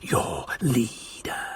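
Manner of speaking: slow, hissed whisper. A narrator's reading. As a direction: hiss the threat. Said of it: "he hissed".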